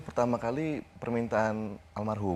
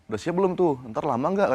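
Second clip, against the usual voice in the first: hurried retold question; 8 semitones higher, 7 dB louder than usual. Senior pressing him, retold.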